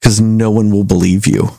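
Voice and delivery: deadpan. Retold or imitated. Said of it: "he looks him deadpan in the eyes".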